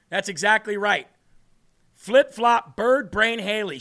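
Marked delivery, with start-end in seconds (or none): 1.9-3.8 mocking nickname.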